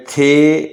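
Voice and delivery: "تھے" with the tongue on the teeth and a puff of air; letter sound demo. Shown as a demonstration. Teacher showing learners a TH sound, letter sound demo on "تھے". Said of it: "دال کی آواز دیتا ہے".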